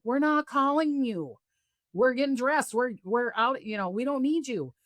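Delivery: high-pitched, put-upon retort; imitated impatient denial in a high voice; mock exasperation. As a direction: mimic friends brushing someone off, pitched well up. Companions deny calling her, retold.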